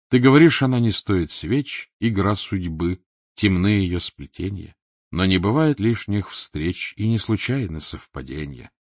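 poem recital. A narrator's reading. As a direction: read the epigraph like a poem. Epigraph poem read aloud. (медленное чтение стихов)

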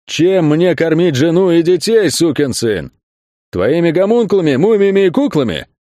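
high, heated demand; boiling anger. A narrator's reading. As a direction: fling it out, seething. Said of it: "вновь закипая".

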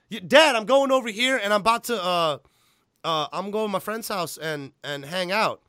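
pleading son caught out; defensive kid. Retold or imitated. Son answers dad in retold scene.

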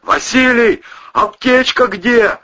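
high, loud frantic yell. Acted. Cousin yelling to the husband, loud frantic shout. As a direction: shout for the first-aid kit. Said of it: "заорал Ковторанг".

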